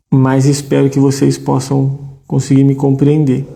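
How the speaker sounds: slurred speech from a bitten tongue. Real, not acted. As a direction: talk around a sore bitten tongue. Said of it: "eu tô falando meio enrolado". (fala enrolada de língua mordida)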